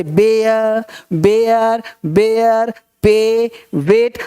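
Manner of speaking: slow बेयर, पे, वेट with long "ay"; drawn-out model reading. Shown as a demonstration. Teacher showing how the sound comes out, slow model. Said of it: "तो इस तरह से".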